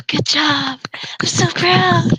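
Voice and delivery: whispered sarcastic praise; a sarcastic teacher's whisper; mock proud whisper.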